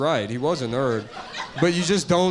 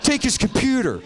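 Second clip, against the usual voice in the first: jock bully voice; 7 semitones higher than usual. Retold or imitated. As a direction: shout it like a gleeful bully. Jock bullies raiding his computer.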